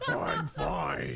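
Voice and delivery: put-on a faint, half-hearted Russian accent on "I'm fine"; a hint of a Russian guard; weak Russian accent. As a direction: barely try the Russian accent. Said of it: "That was not very Russian sounding".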